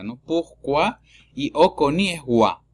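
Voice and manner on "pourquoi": Pourquoi said as pukwa, open U, final wa; French pourquoi. Shown as a demonstration. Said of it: "o con U es U abierta".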